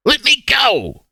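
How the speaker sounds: loud desperate whisper. Acted. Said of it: "T J's still whispering, but it's getting louder".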